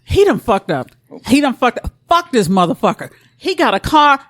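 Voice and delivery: acted angry phone rant; reenacted pissed-off venting. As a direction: vent to your bestie, mock-furious. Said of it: "I was pissed that day".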